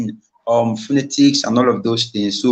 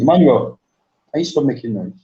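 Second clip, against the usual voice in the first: calling out. Real, not acted. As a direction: call his name out to make him hear. Calling out to someone in the room.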